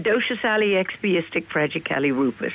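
"Dosha Sally Expiistic Fragicali Rupus" said syllable by syllable backwards; backwards speech. Shown as a demonstration. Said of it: "you know you're gonna have to do it now".

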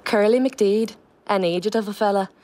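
lightly lilting Donegal accent. Shown as a demonstration. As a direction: deliver the play line with a learned Donegal lilt. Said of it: "authentic, Donegal accent".

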